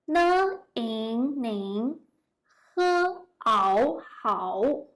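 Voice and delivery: "Ne, yin, ning", sounds separated, then joined; spelling out pinyin. Shown as a demonstration. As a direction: sound out "ning hao" piece by piece. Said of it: "try to read the greeting word by pinyin".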